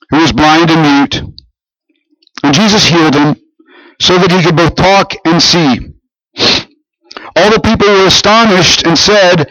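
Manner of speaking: measured Bible reading to a congregation; scripture reading. Acted. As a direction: read the gospel passage out formally. Reads the Bible passage aloud.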